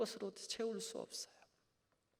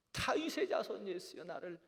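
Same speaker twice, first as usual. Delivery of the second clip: raised, higher pleading call; crying out louder; 4 semitones higher, 5 dB louder than usual. Acted. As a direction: call out insistently over the crowd. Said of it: "더 크게 소리치는 거예요".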